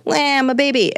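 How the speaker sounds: high-pitched newborn announcing itself; lightly hammed-up baby, pitched well up; mock baby voice. Expert mocking the idea of being born biased, mock baby voice. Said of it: "you weren't like".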